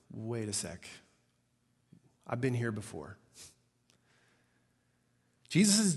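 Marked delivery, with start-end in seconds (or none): 0.1-3.2 low, hushed thinking aloud; dawning realisation. Retold or imitated. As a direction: say it softly to yourself as memory returns. Voices Peter's dawning memory.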